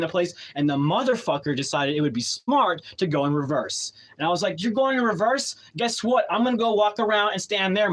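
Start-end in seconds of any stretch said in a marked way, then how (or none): 4.6-7.9 higher-pitched retold defiance; defiant challenge. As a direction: re-enact standing up to the driver. Retold standoff with the truck.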